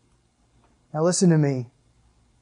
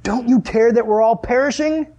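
high, pleading cry of scared men; frantic high plea over the storm; panicked disciples; 7 semitones higher, 3 dB louder than usual. Retold or imitated. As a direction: beg him to wake up, the boat is sinking. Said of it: "they woke him and said to him".

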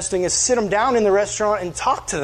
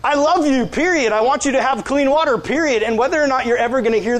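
emphatic; 5 semitones higher than usual. Real, not acted. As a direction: insist with full conviction. Emphatic preaching climax.

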